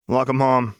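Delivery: sour, curt welcome home; grumpy reply. Acted. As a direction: grumble the greeting. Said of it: "came the grumpy reply".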